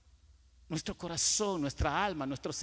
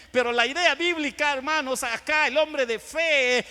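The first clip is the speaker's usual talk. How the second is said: higher, emphatic sermon delivery; forceful preaching; 7 semitones higher, 6 dB louder than usual. Real, not acted. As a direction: preach it with punched key words. (predicación enérgica y enfática)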